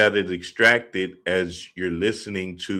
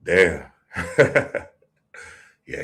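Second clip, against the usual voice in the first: ordinary talk, nothing marked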